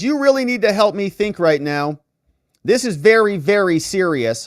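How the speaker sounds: mild rant. Retold or imitated. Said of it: "Hunter rants".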